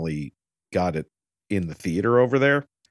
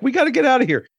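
high, loud urgent plea; panicky Vincent; 4 dB louder, much faster than usual. Retold or imitated. Vincent urging Jules to flee, voiced high and loud. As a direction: rush him out, pitched up and loud.

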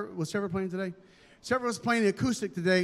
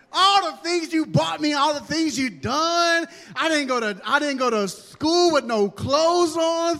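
put-on high, loud, gushing child's voice, slow at times; a kid overdoing the good attitude, high and loud; overjoyed obedient kid; 5 semitones higher, 5 dB louder, slower than usual. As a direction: ham up a grateful kid thanking Daddy and the Lord. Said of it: "with a good attitude".

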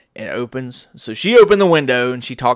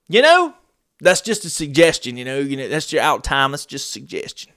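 mocking manager. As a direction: sneer it like a lax manager. Mocking manager's dismissive words.

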